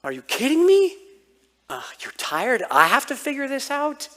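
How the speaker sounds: shocked that Dad won't help; indignant disbelief. Retold or imitated. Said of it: "It's like".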